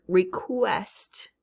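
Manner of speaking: REQUEST drawn out as "ree-KWEST"; emphasized qu sound. Shown as a demonstration. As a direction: lean on the "kw" in REQUEST. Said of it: "we hear the qu".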